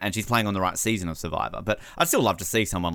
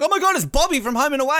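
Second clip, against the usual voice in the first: shrieking much higher, louder fangirl; starstruck fan; 5 dB louder, faster than usual. Pretend. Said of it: "I'm not gonna be like".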